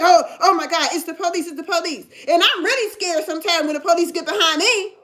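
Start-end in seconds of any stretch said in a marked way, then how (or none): 0.0-2.0 mock panic. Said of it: "and you're like".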